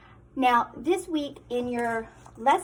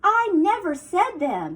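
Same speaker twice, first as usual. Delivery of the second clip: snapped; 4 dB louder than usual. Acted. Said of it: "she snapped".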